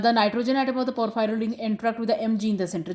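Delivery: reads the definition word by word, slowly; slow, deliberate reading of the textbook sentence. Shown as a demonstration. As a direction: dictate it slowly for notes. Reads textbook line aloud.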